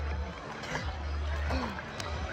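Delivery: soft, breath-only laughter; laughing at oneself. Real, not acted. Vlogger after falling in the water, laughing at herself. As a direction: laugh weakly, almost soundless.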